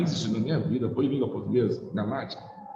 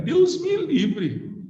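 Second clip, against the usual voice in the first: high, drawn-out cry of dread; hammed-up high Deus me livre; mock horror; 13 semitones higher, much slower than usual. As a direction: stretch it out like it's a nightmare. Dreading grammar, exaggerated outcry.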